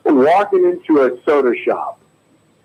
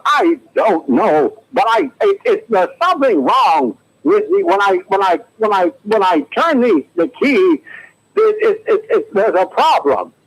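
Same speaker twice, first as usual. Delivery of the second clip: high, halting, trembling star voice; Katharine Hepburn; 5 semitones higher, slower than usual. Acted. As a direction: stammer it out high like a fading diva. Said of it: "here's my impression of Katharine Hepburn".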